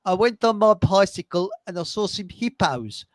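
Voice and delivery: imitated Rhodesian accent. Retelling a workmate's funniest sentence, imitated Rhodesian accent. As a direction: quote him in a Rhodesian accent. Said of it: "funniest sentence he came out with".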